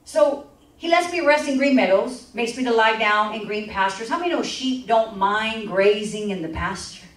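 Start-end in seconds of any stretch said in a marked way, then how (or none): 0.8-4.1 scripture reading. Acted.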